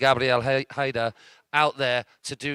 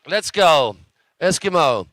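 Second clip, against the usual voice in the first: loud, higher hype yell; cheering shout; 3 semitones higher, 7 dB louder, slower than usual. Real, not acted. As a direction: roar the rider on. Cheering rider on.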